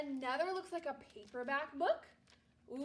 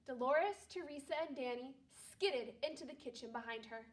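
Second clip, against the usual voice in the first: calm read-aloud storytelling voice; story narration; 3 dB quieter than usual. Acted. Teacher reading a Christmas story aloud to her class, calm narration. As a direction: read it gently to a second-grade class.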